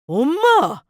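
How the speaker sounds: loud high shout of mom; angry yell. Acted. Son finally snaps at his mother, loud angry yell. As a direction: yell it in outrage.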